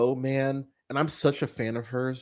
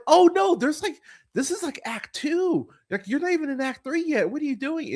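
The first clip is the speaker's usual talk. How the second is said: retold dismay; 13 semitones higher than usual. Retold complaint to the movie.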